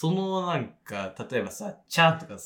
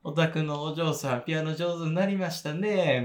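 Kyoto-style sarcasm; 2 semitones higher than usual. Acted. Neighbour complaining about piano noise, snide Kyoto politeness. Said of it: "ちょっと嫌味で。".

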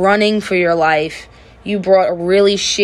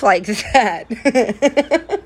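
real laugh; 4 semitones higher than usual. Shown as a demonstration. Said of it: "That's how I laugh".

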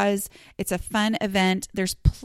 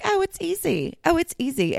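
mocking quote; 9 semitones higher than usual. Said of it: "somebody's like".

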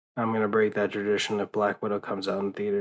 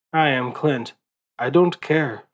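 put-on awful Wakandan accent; 3 semitones higher than usual. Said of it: "God, that was a fucking awful accent".

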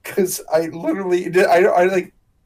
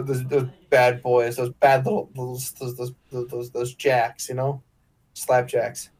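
tipsy rambling; 5 semitones lower than usual. Real, not acted. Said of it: "I'm really intoxicated".

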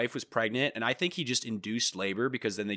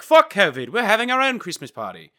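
mock defiant shout; 10 semitones higher, 10 dB louder than usual. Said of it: "They're basically like".

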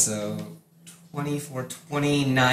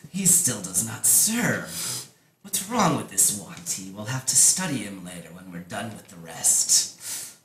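lightly voiced Naga, a little lower; Naga creature voice; 4 semitones lower, 5 dB quieter than usual. Nagas discuss the one who will not serve, in a light creature voice. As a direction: creature conferring coolly over its captive.

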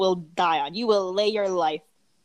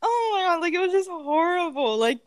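exasperated outburst; 9 semitones higher than usual. Real, not acted. Ranting about annoying customer.

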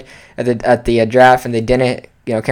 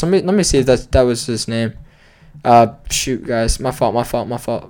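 muttered to self; 4 semitones lower, 7 dB quieter than usual. Real, not acted. Looking something up, muttering.

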